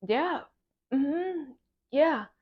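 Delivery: high, noncommittal yeah-yeah; doubtful agreement. Retold or imitated. Student answering praise of being a leader, high doubtful agreement. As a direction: humour them with high little yeses.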